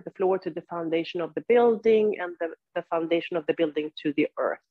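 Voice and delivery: unhurried cues with long silences between; guided yoga practice. Real, not acted. Teacher leads seated students into body awareness, guided meditation delivery. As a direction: guide them through it, leaving room to breathe.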